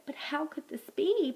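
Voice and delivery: a frightened mother pleading for answers; distressed mother ostrich. Acted. Mama Ostrich asks how her chicks were taken, distressed.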